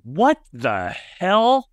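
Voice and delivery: a high, drawn-out "what the hell" in the trainer's voice; trainer's shocked outburst. Retold or imitated. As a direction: stretch it out slowly in disbelief. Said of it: "I hear our trainer go".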